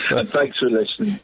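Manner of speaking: bright cheery sign-off; chirpy voice. Real, not acted. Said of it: "It sounded so chirpy saying that".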